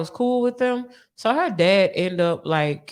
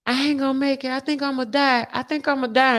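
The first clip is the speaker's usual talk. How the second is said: imitating cellmate; 6 semitones higher than usual. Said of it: "she's like".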